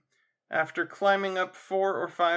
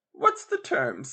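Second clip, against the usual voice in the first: asked again in a louder key; louder repeat; 4 dB louder, slower than usual. Acted. Mrs Tuggs repeats her question to the landlady, louder. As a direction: raise the voice to be heard. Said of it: "in a louder key".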